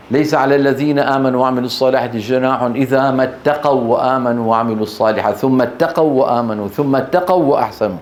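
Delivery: measured recited verse; Quran recitation. Acted. Teacher quotes the verse to class, recited. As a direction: recite it in the chanted reading manner.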